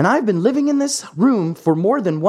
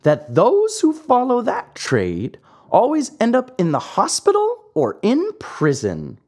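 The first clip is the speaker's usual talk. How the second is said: calm voice; 5 semitones higher than usual. Acted. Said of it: "in his calm voice".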